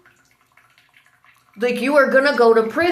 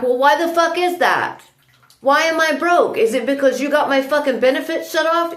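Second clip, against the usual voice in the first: retold angry yell; 4 semitones higher than usual. Retelling her shouted reply to a neighbour, a raised mock yell. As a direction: hurl the question back, angry and raised. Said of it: "And I screamed back".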